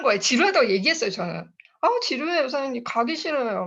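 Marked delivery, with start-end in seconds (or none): 1.8-3.7 whiny complaint. Retold or imitated. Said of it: "막 이런 얘기를 하는 거예요".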